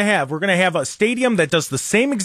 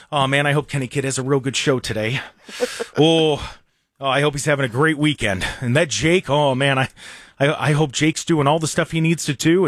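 mocking player; 4 semitones lower than usual.

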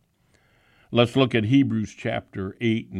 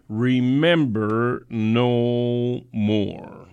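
slow, solemn reading of the verse; scripture reading; slower than usual. Acted. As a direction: draw out remember no more. Reads scripture.

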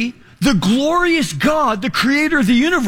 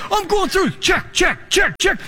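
high, quick check, check, check; rising thrill with each check; ticking off checks, voice climbing higher; excited counting; 7 semitones higher than usual. Real, not acted. Excitedly flipping through checks.

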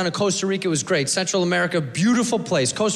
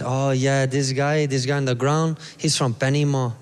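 low-pitched imitation of a Costa Rican accent; matter-of-fact local with a Costa Rican accent; lightly accented Costa Rican guy; 6 semitones lower than usual. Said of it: "And he goes".

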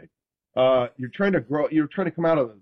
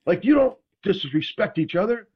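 higher, slow earnest teammate voice; quoting Ronnie; 9 semitones higher than usual. Retold or imitated. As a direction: lay it out like a sacred rule, pitch up. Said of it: "He goes".

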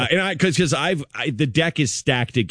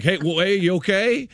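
higher, tentative checking-in; acted concern; 7 semitones higher than usual. Parent to the terrified doctor, high acted concern. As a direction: ask it up high, as if soothing someone startled.

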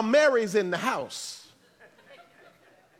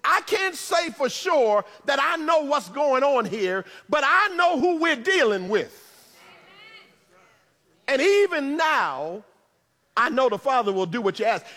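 Martha's inner voice; 3 semitones higher than usual. Acted. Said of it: "something in her heart that tells her".

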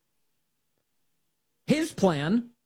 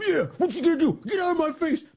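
mock tough guy taunt; 12 semitones higher than usual. Host mocking the activist squaring up to troopers, high jeering taunt. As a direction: act out a scrawny guy squaring up.

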